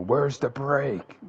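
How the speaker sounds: loud, slow drawn-out yell. Acted. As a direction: yell it in panic. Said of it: "you can hear Zorro yell".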